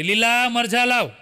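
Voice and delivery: slow drawn-out call into the shop. Retold or imitated. Grocer calling to his helper, a slow mild mock shout. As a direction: call to the back of the shop, slowly. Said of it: "ફરી પાછી દુકાનમાં બૂમ પાડી".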